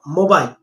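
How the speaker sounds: "mobile" said the common mistaken way; mispronunciation. Shown as a demonstration. Teacher showing learners a common error, mispronounced "mobile". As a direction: demonstrate the wrong Indian "mobile". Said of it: "It's not mobile".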